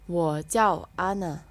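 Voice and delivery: very slow Wo jiao Ana, jiao falling; slow model reading. Shown as a demonstration. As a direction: say it slowly for repeating. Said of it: "repetition practice".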